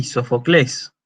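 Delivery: Sófocles stressed on the last syllable, CLÉS; Greek final stress. Shown as a demonstration. Lecturer showing the Greek accent rule, final stress on Sófocles. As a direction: move the accent to the end of Sófocles. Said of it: "por eso se acentúa ahí".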